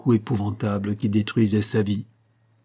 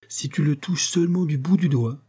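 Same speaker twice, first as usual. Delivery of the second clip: raised, determined warning; unhesitating threat; 5 semitones higher than usual. Acted. Monique warning Marin not to touch him, unhesitating. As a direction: threaten without a pause, pitched up. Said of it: "dit Monique sans hésiter".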